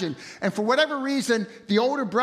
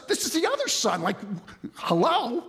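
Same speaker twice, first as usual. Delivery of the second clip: incredulous guest; 2 semitones higher than usual. Acted. Acting the baffled guest.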